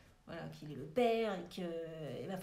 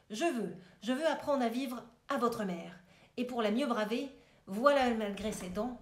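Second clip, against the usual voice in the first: Chrysale lu avec fermeté de père; un père qui impose sa volonté, un peu plus fort; père autoritaire; 3 semitones higher, 5 dB louder than usual. Acted. Père lisant son rôle, ferme. (le père qui s'adresse à sa fille, ton ferme)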